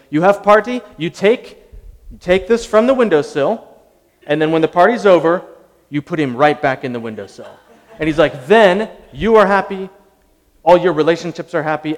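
bonsai grower gives party advice, in a light mock Eastern European accent. Imitating the grower's accent with growing zeal. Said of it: "It was a terrible accent".

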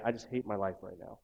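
soft, heavy confession; a hint of a weary, honest complaint; honest low admission. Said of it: "allowed to come in and say".

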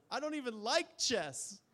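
high, loud, slow mock sob of a crying child; sobbing child. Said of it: "And she says".

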